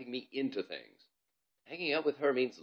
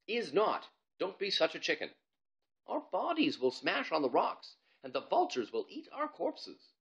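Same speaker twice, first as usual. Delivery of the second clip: put-on higher, lively kid voices; kids bickering; 8 semitones higher than usual. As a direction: argue like schoolkids. Ivalo and Bob arguing.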